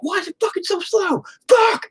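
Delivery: mock wife cursing. Wife cursing at slow scrolling.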